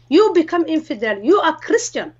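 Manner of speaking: accuse, with restrained anger; retold angry shout. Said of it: "she shouted and she said".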